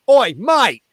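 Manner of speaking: a rowdy punter shouting from above; heckler from the balcony. Retold or imitated. Balcony guy calling down to the comic, loud.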